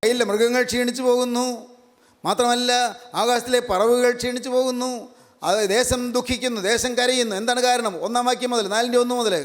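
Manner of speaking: high, sustained preaching voice; declamatory sermon delivery. Real, not acted. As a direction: proclaim it phrase by phrase to a congregation. Preacher expounds the verse.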